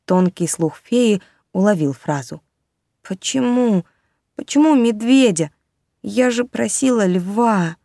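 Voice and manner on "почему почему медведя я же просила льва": put-on high, hurt little girl, near tears; tearful child. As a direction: plead through tears like a small girl. Crying girl, tears on cheeks.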